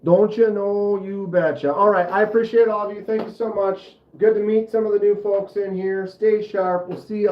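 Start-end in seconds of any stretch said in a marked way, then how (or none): 0.0-1.7 playful Minnesota accent, pitched up and louder. Shown as a demonstration. Streamer signing off to viewers in a put-on Minnesota accent. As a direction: toss it out in a folksy Minnesota accent. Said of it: "it's a Minnesota accent".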